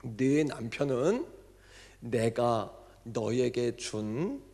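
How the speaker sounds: slow, measured divine voice with a distinct timbre; voice of God. Retold or imitated. Pastor voicing God to the deaconess, slow and solemn. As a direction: speak each word slowly as God. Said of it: "어떻게 음성을 들려주셨냐면요, 이렇게요".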